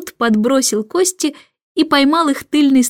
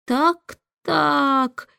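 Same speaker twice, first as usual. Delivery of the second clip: amazed; 5 semitones higher, 4 dB quieter than usual. A narrator's reading. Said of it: "изумлённо".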